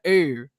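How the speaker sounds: "er" as the mocked Baltimore vowel. Shown as a demonstration. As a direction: imitate the Baltimore "er" with distaste. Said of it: "I don't like that vowel pronunciation".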